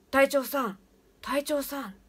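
persistent ghostly call. Retold or imitated. The voice below keeps calling the captain, loud and insistent. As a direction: keep calling, refusing to be ignored. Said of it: "しつこく友達は言ってる".

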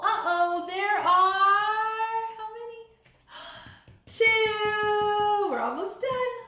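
lively sing-song picture book reading; animated storybook voice with playful chants; reading to children. Acted. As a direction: read it like story time for little kids. Teacher reads picture book aloud.

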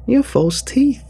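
high, slow, ringing announcement; booming reveal. Acted. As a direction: boom it out like a magician's reveal. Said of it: "boomed loud enough for the whole room".

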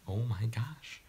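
breathless excited whisper. Real, not acted. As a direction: whisper it in disbelief. Excited whisper as stream goes live.

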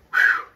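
loud blown-out whew; relieved whew. Real, not acted. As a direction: blow out a big breath of relief. Catching breath after chicken antics.

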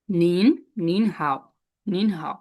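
নিন হাও spoken slowly with falling নিন; slow model nin hao. Shown as a demonstration. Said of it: "এটা পড়েন তো".

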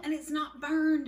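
excited whisper. Real, not acted. Cook telling viewers the cobbler is fine, whispering. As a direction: let them in on a happy secret. Secret delight over cobbler.

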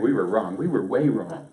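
loud, emphatic mock admission; mock confession. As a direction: own up loudly on their behalf. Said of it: "But basically they said".

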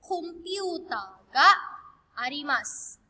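"Computer ga arimasu" said slowly with "ga" drawn out; slow model sentence. Shown as a demonstration. Teacher showing students the Japanese, slow and deliberate. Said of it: "That would be".

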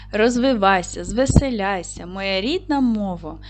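put-on verse read for young pupils; poem recitation. Shown as a demonstration. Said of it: "recites a poem to open lesson".

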